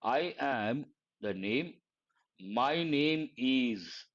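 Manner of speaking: I am the name, my name is, said slowly and clearly; slow model sentence. Shown as a demonstration. Teacher modelling the correct self-introduction slowly. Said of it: "you have to say".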